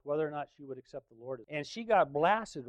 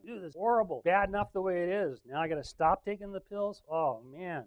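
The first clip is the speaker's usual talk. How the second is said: higher-pitched mock wail of dismay; retold tearful complaint; 4 semitones higher than usual. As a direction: act out being miserably overwhelmed, without real tears. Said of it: "crying, crying".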